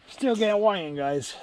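mock exasperation. Real, not acted. Complaining to viewers about catch.

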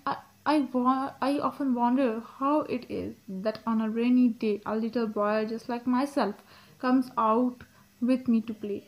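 slow, careful poem reading; poem read aloud. Acted. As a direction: read the verse slowly, phrase by phrase. Reads the poem aloud slowly. (धीमे, ठहर-ठहर कर कविता पाठ)

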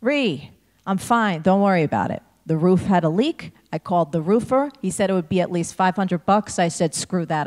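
a loud, brisk call down from the roof; yelling down. Retold or imitated. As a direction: holler it down to the kid, no fuss. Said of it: "And she yells down".

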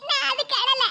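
tearful protest, mildly played. Wife correcting husband's guess, tearful. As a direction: object through tears. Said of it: "அழுதுகிட்டு இருக்கா?".

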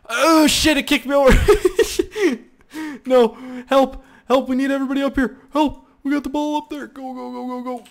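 high, loud frantic yelling; real panicked squealing; frantic laughing panic. Real, not acted. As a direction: shriek for help. Panicking as he gets kicked over.

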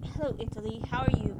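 loud greeting in a shaky-attempt Austrian accent; badly faked Austrian accent; Austrian-accented hello, projected. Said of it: "I cannot do an Austrian accent".

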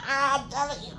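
high, soft words half-laughed; can barely get it out for laughing; laughing through it. Real, not acted. Laughing as she tells viewers.

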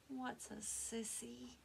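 soft, slow small voice; timid question. A narrator's reading. Elmer to Mama, soft and timid. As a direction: ask shyly, almost afraid.

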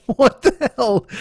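drawn out, high what the hell; incredulous. Real, not acted. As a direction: stretch it in disbelief. Reacting to absurd news.

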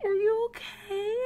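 high-pitched anxious checking; worried cooing. Real, not acted. Player checks on the pug after a mishap, worried. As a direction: fret over a pet, pitched high.

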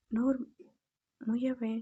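loud, furious yell at the daughter-in-law; angry shout. Acted. Mother-in-law catching her daughter-in-law, shouting angrily. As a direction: bark the order to shut up. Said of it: "అత్తమ్మ కోపంగా అరిచింది".

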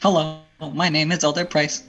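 lightly voiced eager missionary greeting; a hint of musical-theatre missionary pitch; Elder Price. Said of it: "he just walked off Book of Mormon".

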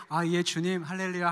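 mildly meek, pious answer; mock gentle reply. Missionary imagining a meek answer to God, mock gentle. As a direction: pretend to accept it sweetly. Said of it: "제가 부드럽게 하나님께 이렇게".

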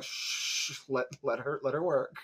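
whispered shh, then softly let her work; hushing whisper. Retold or imitated. Xander hushing Willow while Buffy fights, soft whisper. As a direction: hush your friend so she can work. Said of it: "and Xander's like".

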